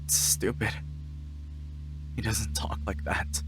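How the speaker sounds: hushed, breathy aside to chat; whispered aside. Real, not acted. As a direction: whisper it under your breath. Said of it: "muttered aside".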